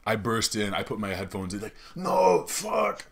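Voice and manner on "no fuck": high, hammed-up cry of dismay; mock dismayed listener. Old listener stuck hearing the host again, mock dismay. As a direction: protest in a much higher put-on voice.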